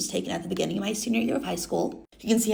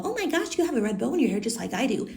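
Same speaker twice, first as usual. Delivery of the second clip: lightly voiced princess, starts high then settles; a hint of a sweet storybook princess; Snow White; 3 semitones higher than usual. Snow White greets a lookalike guest, lightly voiced princess. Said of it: "my turn to meet up with Snow White".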